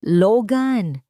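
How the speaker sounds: loud, high cry of pure fear; terrified scream. Acted. Isabel sees the child under the bookshelf, terrified scream. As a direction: scream his name in terror. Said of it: "Isang sigaw na puno ng purong takot".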